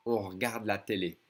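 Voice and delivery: «On regarde la télé» with regarde cut to r'garde; swallowed E. Shown as a demonstration. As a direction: lose the first E of regarde in «On regarde la télé». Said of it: "E in second position is gonna be swallowed".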